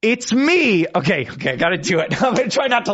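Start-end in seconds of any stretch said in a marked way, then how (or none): 0.0-0.9 lightly attempted Mario voice, higher and cut short; a tentative stab at a cartoon plumber; amateur Mario. Host trying the impression on Mario's own actor, amateur Mario. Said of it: "I have to try it to Mister Mario himself".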